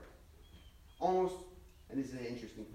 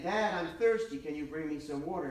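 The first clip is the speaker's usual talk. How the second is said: put-on raised, whiny kid calling from bed; child calling out; 5 dB louder than usual. Boy calls from bed to his father, pleading. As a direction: call out like a thirsty boy stalling bedtime. Boy asking a third time.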